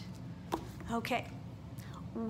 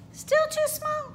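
much higher and slow; slow rising question; 5 dB louder, slower than usual. Acted. Teacher asks if the next studio fits, high and slow. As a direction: ask hopefully.

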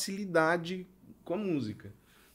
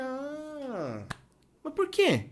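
much higher, playfully puzzled; mock puzzled question; 12 semitones higher, 3 dB quieter, much slower than usual. Teacher to a pupil, feigning puzzlement in a high voice. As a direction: play dumb to make the kid think.

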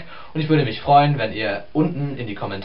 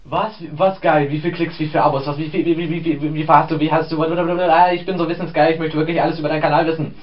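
nosy excited; 3 semitones higher than usual. Acted. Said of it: "Der Wissensgeile".

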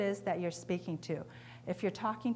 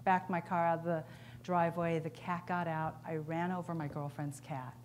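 glum customer; 3 semitones lower, 5 dB quieter than usual. Acted. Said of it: "Paul shakes his head and says".

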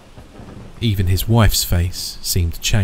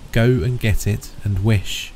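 excited cry; 3 semitones higher, slower than usual. Acted. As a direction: urge it out, trembling with excitement. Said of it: "quivering with excitement".

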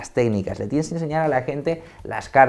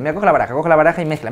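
rushed patter; 2 semitones higher, 4 dB louder, much faster than usual. Shown as a demonstration. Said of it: "no vocalizar y ir muy rápido".

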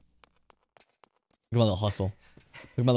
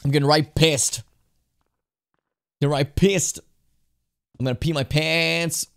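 mock anger; 4 semitones higher, 3 dB louder than usual. Announces mounting mock anger.

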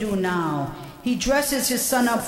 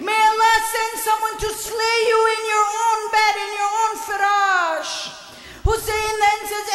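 impassioned lament; 8 semitones higher, faster than usual. Acted. Preacher to mourners at a majlis, high wailing lament. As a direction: pour out grief to the mourners at full force.

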